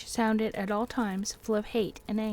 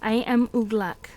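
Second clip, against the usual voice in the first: growling orc; 6 dB louder than usual. Acted. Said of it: "said the growling voice".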